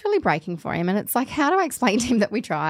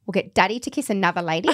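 whispered laugh. Retold or imitated. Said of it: "And he said".

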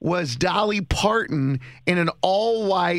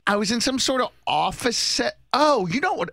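hazy puzzled dream recounting; 3 semitones higher than usual. Real, not acted. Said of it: "This is insane".

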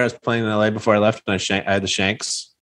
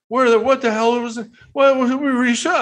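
mock outraged yell, much higher; imitating an angry driver; 13 semitones higher than usual. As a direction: play the furious guy in the cart, pitch jumping up. Golfer yelled at by cart driver.

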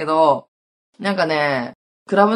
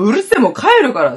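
louder and fast, a mock furious snap; retold angry yell; 6 semitones higher, 6 dB louder, faster than usual. The speaker yells at crying friend, leaving angrily. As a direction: spit it out quickly like you're storming off. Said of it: "私もブチ切れて".

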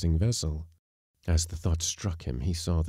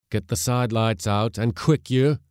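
higher, louder gruff skipper's command; growled order; 5 semitones higher, 6 dB louder than usual. A narrator's reading. Skipper at the helm ordering the mate, growled. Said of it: "growled the skipper".

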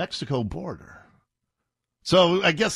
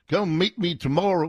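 mock dropped-G drawl. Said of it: "We drop the G's".

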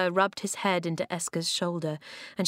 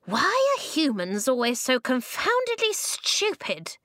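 high, cross, reedy little man; reedy, exasperated voice; 6 semitones higher than usual. A narrator's reading. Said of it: "It was louder this time".

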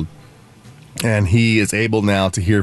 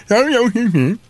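high mock British vowel noises; deaf British babble; 10 semitones higher than usual. Imitating a deaf person from England, British babble. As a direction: push out slurred British-sounding nonsense. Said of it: "has a deaf British accent".

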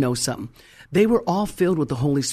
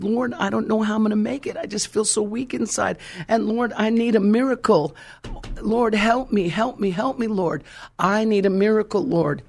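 higher, mildly tearful pleading to the Lord; reliving a desperate prayer, lightly voiced; a hint of crying while begging for a miracle; retold tearful prayer; 4 semitones higher than usual. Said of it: "and I'm crying".

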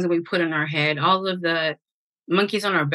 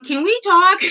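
sheepish client; 12 semitones higher, 6 dB louder than usual. Retold or imitated. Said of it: "they'll send me a message".

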